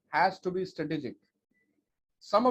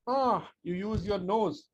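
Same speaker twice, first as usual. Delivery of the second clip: breath demo; 5 semitones higher, slower than usual. Shown as a demonstration. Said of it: "passage of breath".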